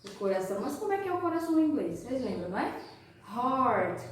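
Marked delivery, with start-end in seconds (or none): 3.3-4.0 "Heart" with a curled R before the t. Shown as a demonstration. Teacher naming the shape in English, curled R. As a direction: model "Heart" falling, with a retroflex R. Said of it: "Olha o R mais uma vez".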